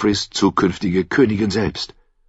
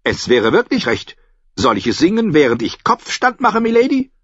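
giant fool; 10 semitones higher, 4 dB louder than usual. A narrator's reading. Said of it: "erwiderte der riesige Narr".

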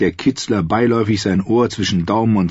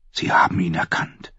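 whisper; 4 dB quieter than usual. Acted. Arya's tense realization.

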